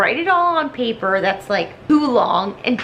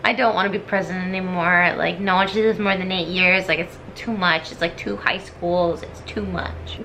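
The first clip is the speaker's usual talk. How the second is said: weary low voice; 4 semitones lower than usual. Retold or imitated. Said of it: "'Cause he's like".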